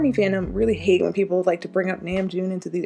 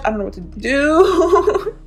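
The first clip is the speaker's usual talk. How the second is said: laughing helplessly; 7 semitones higher, slower than usual. Real, not acted. Gushing over a new release.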